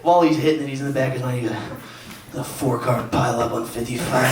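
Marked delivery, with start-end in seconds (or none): 2.3-4.3 lightly voiced anchor reading headlines; Chris Renier. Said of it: "He can't get out of his head".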